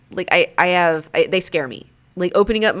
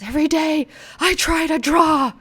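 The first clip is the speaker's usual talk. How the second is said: mock whiny meme voice; 9 semitones higher than usual. Acting out meme caption.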